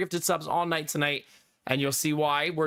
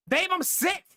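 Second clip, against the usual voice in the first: high-pitched playful whine to babe; mock sick voice; 13 semitones higher than usual. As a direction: put on a sick act, pitched way up. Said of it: "I get that gruff voice".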